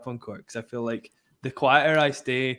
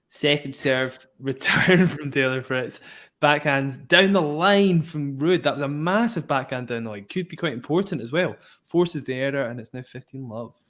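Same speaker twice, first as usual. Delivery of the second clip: live play-by-play. Acted. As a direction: call the rally as it unfolds. Play-by-play of the match.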